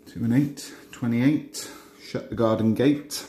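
bingo caller. Acted. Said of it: "I start doing my bingo calls".

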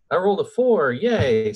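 celebrating. Real, not acted. Player telling the table the roll passed, celebrating. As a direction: cheer the good roll, lifting the voice.

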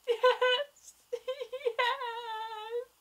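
very high, drawn-out fan squeal; ecstatic squeal. Retold or imitated. Viewer reliving the romantic kiss, ecstatic high squeal. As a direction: squeal it out in giddy delight.

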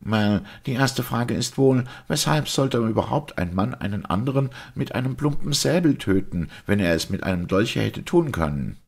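high-pitched, puzzled doctor voice; questioning doctor. Acted. Doctor putting his first question to the priest, puzzled.

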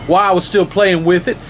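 high, fast, rising tearful rant, not plain tears; upset little boy lists his woes to the monster, rising and rushing; crying boy. Acted. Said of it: "the little boy cried".

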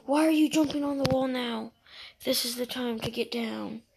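loud, exasperated yell at a teammate; frustrated shout. Real, not acted. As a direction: shout it out in disbelief. Yelling at player on the wall.

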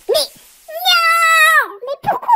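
loud high cry of frustration; dismayed shout. Real, not acted. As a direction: yell it out in dismay. Falls in game, shouts.

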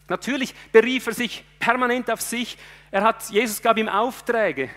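fervent sermon voice, rising and pushing; preaching at full force. Acted. Preacher driving home his sermon, fervent preaching. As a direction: preach it to the congregation with fire.

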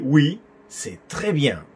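slow, connected teaching delivery; measured model phrase. Shown as a demonstration. Teacher offering students another answer, measured model phrase. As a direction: model the phrase at a learner's pace.

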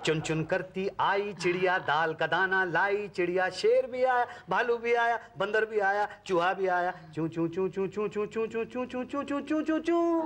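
sing-song nursery recitation; children's rhyme. Acted. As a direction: recite a lullaby rhyme, drawing out the slow chirps. Phone पर बच्चे को कविता सुनाना. (बच्चों की कविता का लयदार पाठ)

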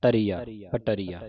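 ਪਟਰੀਆ with ਬ set apart, then ਟਰੀਆ; ਟਰੀਆ first, then ਪਟਰੀਆ as a whole; ਪਟਰੀਆ as the correct reading; right way. Shown as a demonstration. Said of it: "ਬੱਬਾ ਵੱਖਰਾ".

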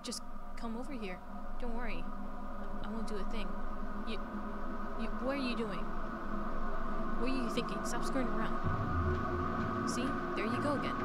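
loud, menacing, unhinged shouting; crazed yelling. Acted. Crazed Rin shouts at her through the locked door. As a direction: bang on the door and yell.

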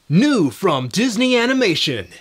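high, loud upbeat promo burst; excited promo announcer. Shown as a demonstration. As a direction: hype it like a kids' commercial. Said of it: "announcer and movie trailer voices".

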